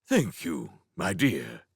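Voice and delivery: a mild disgusted sneer. Acted. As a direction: sneer the thanks. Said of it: "Prince Ludovic said disgustedly".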